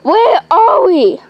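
whining complaint. Acted. Lost, complaining after hours walking.

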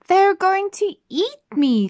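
high, loud panicky little voice; fearful thought. Acted. Goldilocks fears the bears, high loud panic. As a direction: squeal it out in panic. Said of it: "thought Goldilocks".

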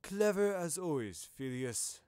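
approving praise, starting high and falling away; congratulating. A narrator's reading. Headmaster congratulates a colleague on his deduction, approving. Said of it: "Dumbledore congratulated him".

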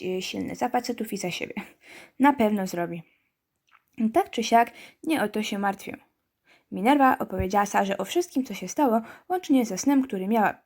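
ordinary talk, nothing marked

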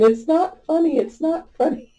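high, giggly mock protest; protesting through laughter. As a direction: insist while trying not to laugh. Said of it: "and I'm laughing too, saying".

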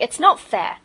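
put-on loud, indignant boy's complaint; protesting boy. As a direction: argue it out as a wronged child.

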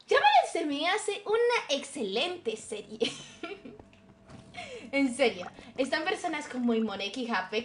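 calm, measured documentary narration. Pretend. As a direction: read it like a nature documentary narrator. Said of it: "Pones voz de documental".

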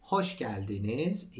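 Hoş geldiniz drawn out very slowly, each syllable clear; slow teacher model of Hoş geldiniz. Shown as a demonstration. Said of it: "Hoş geldiniz (slow model)".

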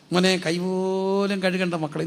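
slow, stretched-out pampering; coaxing parent. Retold or imitated. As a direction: imitate a doting parent coaxing a child. Voices a doting parent feeding child.

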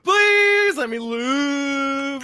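mock pleading. Pleading denial.

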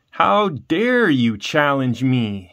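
a restrained, slowed shout of outrage; mild shout. Acted. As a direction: demand it, offended, slowly. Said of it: "he shouted".

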